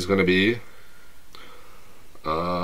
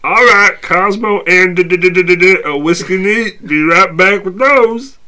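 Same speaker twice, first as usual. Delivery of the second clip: chirpy, louder waitress; perky server greeting; 10 semitones higher, 8 dB louder than usual. Acted. Waitress again, stammering.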